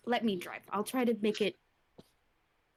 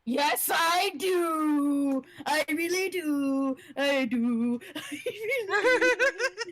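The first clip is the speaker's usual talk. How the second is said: overeager; 3 semitones higher, much slower than usual. Real, not acted. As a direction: gush it out with a laugh. Eager answer to perception.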